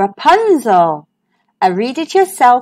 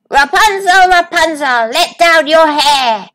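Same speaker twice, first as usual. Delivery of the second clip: a witch calling high up to a tower, a touch higher in pitch; 4 semitones higher, 3 dB louder than usual. Acted. The witch calling up to Rapunzel's window, lightly voiced. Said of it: "She called up to the window".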